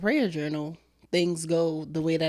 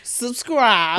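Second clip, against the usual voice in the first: laughing shout; 4 semitones higher, 6 dB louder than usual. Real, not acted. Laughing call to subscribe.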